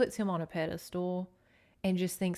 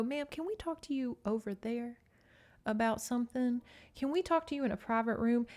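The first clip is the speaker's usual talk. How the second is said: higher, gently polite request; tactful officer; 4 semitones higher than usual. Acted. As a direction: lightly voice a discreet, courteous officer. Models tactful police request.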